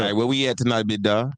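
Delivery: imitated Atlanta drawled greeting; Atlanta accent. Showing how they always greet in Atlanta, Atlanta accent. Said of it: "in Atlanta, they, it's always like".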